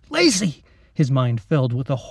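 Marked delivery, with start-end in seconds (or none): 0.1-0.6 high, loud cry of her name; boy screaming for the fallen girl. Acted. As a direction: call out to her in horror. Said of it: "Max screamed".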